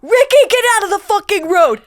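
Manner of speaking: mock Boston mother shouting at a toddler; Boston mom yelling. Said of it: "woman yell at her toddler in Boston".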